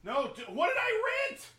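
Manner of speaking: high-pitched alarmed question; real dismay. Real, not acted. Co-host finding an accidental rental, dismayed.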